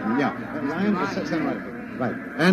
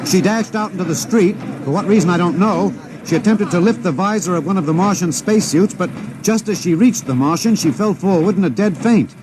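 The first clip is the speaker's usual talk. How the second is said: sudden startled reporter, quicker; alarmed. Acted. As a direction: reporter caught off guard by a woman's collapse. Reporter sees woman rush out.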